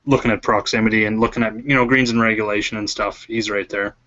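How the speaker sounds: robotic glitchy voice; garbled robotic audio. Real, not acted. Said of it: "You sounded like a robot that whole time".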